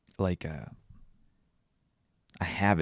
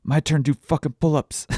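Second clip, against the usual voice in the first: put-on high, louder bossy little-kid voice; toddler voice; 9 semitones higher, 8 dB louder than usual. Dad imitating daughter swearing for her turn, high and loud. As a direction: demand it like a cheeky toddler. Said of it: "out of nowhere, she goes".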